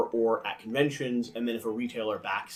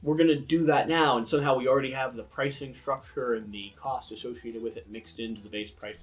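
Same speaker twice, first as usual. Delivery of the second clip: hype-y publisher voice; 2 semitones higher, 4 dB louder than usual. Retold or imitated. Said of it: "the, you know".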